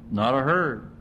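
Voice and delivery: usual speaking voice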